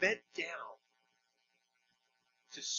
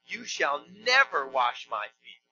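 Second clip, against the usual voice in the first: slow line with "never" drawn out and punched; emphatic NEVER; 2 semitones lower, slower than usual. Acted. Peter refusing Jesus, heavy stress on "never". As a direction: land hard and long on "never". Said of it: "in the Greek double negative".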